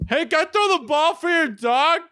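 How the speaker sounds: put-on high, breathless little girl voice, cracking up; imitating the girl. Retelling the girl asking to throw the ball, high mock kid voice. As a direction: squeak it out like an eager kid. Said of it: "she goes".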